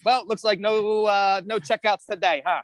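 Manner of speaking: slow, teasing coach jab; mock consoling. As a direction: rub it in gently. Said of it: "I'm like".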